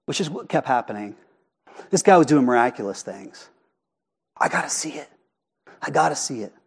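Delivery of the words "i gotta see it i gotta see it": hushed, half-whispered murmur; acted low buzz in a crowd. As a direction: murmur it softly like an eager onlooker. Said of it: "The, the murmuring".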